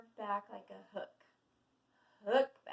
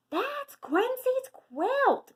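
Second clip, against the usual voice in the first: high, loud, drawn-out squawk; squawking duck; 13 dB louder, much slower than usual. A narrator's reading. Dottie spotting the stolen quilt, high squawking. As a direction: raise the alarm as a cartoon duck. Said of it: "quacks Dottie".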